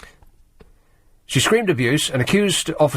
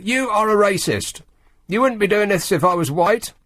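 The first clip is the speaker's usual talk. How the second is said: mock shout; 8 semitones higher than usual. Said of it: "she shouted at the captain".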